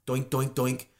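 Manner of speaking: "doink" as a dull axe bouncing; even, rhythmic mock chopping noises; imitated axe chops. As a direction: make the sound of a useless axe. Mimes axe hitting the tree.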